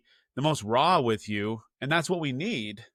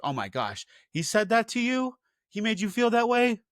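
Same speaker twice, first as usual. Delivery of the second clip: high, shocked sympathy, mock-gasping; high-pitched mock outrage from a friend who takes the kid's side; gossiping friend; 10 semitones higher than usual. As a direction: play the outraged best friend taking sides. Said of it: "That's exactly what the friends are gonna say".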